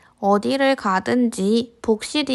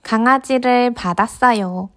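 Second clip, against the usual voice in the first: gentle storybook narration; reading to a toddler. A narrator's reading. Narrating picture book to kids.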